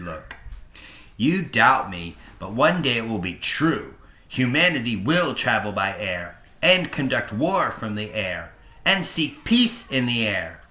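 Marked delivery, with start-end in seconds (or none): 1.2-10.6 a lightly voiced young aviator, louder, insisting; earnest young pilot. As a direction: proclaim the future of flight. Pilot insists on his vision.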